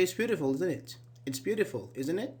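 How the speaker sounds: "isn't it" as a statement, needing no reply; falling tag question. Shown as a demonstration. Teacher just stating an opinion to students, falling tag question. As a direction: state it, letting "isn't it" drop. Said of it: "it's falling because I don't need a response".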